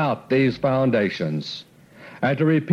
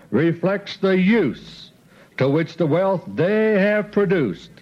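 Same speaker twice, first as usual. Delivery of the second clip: slow, measured delivery of a key statement; a weighty, unhurried pronouncement; slow and deliberate. Shown as a demonstration. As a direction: give each phrase weight so it sinks in. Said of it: "I'll repeat it slowly".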